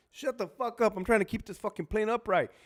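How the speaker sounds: acted frantic irritation; exasperated pilot. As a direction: lash out while wrestling with the controls. Acted pilot snapping at yelling passenger.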